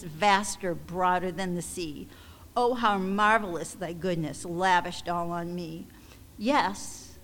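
measured, heartfelt hymn reading; hymn recitation. Real, not acted. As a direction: read the verse aloud with gentle emphasis. Reads a hymn aloud.

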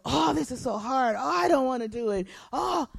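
mock weary whining with a groaned "oh"; hammed-up reluctant moaning; whiny complaint. Preacher mimics her own grumbling at a task, whiny complaint.

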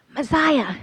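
high, loud, thrilled exclamation; excited. Acted. Andrew grins at Simon over the bursting nets, excited cry. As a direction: burst out with joy. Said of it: "he says excitedly to you".

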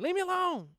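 put-on high childish whine; a playground kid whining leave me alone; kid's whine. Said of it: "Kids just be up there playing".

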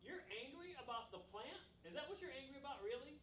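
high, disbelieving question; a touch of a father gently mocking; incredulous God. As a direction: ask it like you can't believe it. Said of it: "And so God is like".

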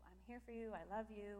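soft, quiet loving words; tender reassurance. Retold or imitated. Husband comforting his crying wife, tender and soft. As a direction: reassure her softly. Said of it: "he keeps trying".

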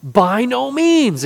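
emphatic refusal; hammered denial. Shown as a demonstration. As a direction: hammer the point home slowly. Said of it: "really hammering that point home".

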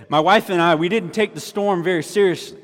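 a light attempt at a country accent. Preacher quoting Timothy, lightly put-on country accent. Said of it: "I was trying to do the country accent".

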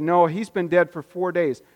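a flat, doubting no. Retold or imitated. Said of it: "That's doubt".

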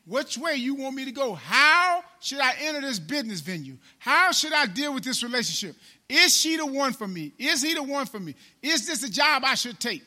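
urgent, insistent questions to God; imploring prayer. Acted. Believer asking God which way to go, imploring.

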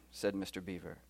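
British storybook reading; low British narration tag, then a question; British accent. Acted. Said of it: "in my very best British accent".

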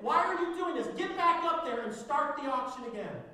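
loud, high outraged yelling; crowd shouting. Acted. Angry crowd protesting the closed auction, loud high shouting. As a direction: demand it back like a cheated buyer. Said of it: "The people shout".

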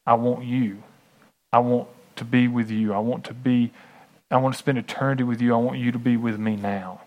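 leading a humble prayer for listeners to repeat; guided prayer. Shown as a demonstration. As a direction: pray it plainly and earnestly, line by line. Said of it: "Then tell him. Say".

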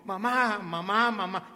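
high, loud calls for mom; acted-out child calling out eagerly; excited little boy. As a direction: pester your mother with urgent excitement. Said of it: "pero excitado, excitado, excitado".

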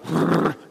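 imitated wordless huff; mock huffy sputter. Old lady's reply before walking out, imitated huffy sputter. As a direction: sputter like an offended listener. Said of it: "And she's like".

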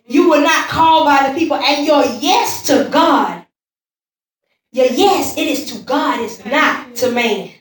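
forceful, weighted sermon phrases; emphatic preaching. Real, not acted. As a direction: declare it to the whole congregation.

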